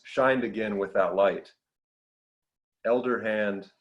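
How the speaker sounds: deliberate poetry reading, pausing at line breaks; measured recital of a poem. Acted. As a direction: read it as verse, each image given room. Reads own poem aloud.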